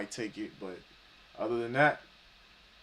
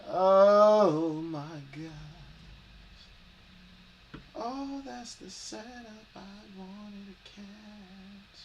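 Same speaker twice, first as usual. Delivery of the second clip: long, slow, high disbelieving oh; exasperated, drawn out; 9 semitones higher, 5 dB louder, much slower than usual. Real, not acted. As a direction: groan it out in disbelief. Missed the trade setup.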